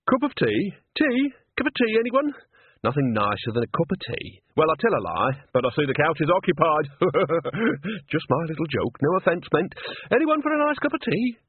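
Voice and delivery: put-on a cheery old woman peddling tea, laughing at her own joke; chirpy tea lady. Nanny in disguise hawking tea.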